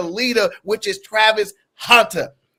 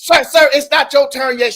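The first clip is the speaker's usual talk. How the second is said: mock polite scolding; 4 semitones higher than usual. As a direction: play her stopping him mid-turn, prim. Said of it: "She said".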